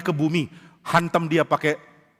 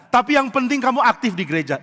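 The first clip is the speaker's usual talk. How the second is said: mock reassurance; 7 semitones higher than usual. Shown as a demonstration. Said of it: "It's okay, nggak bener".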